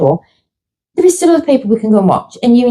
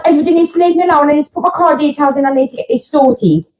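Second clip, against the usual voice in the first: frantic brush-off; 3 semitones higher, faster than usual. Retold or imitated. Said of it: "I was just like".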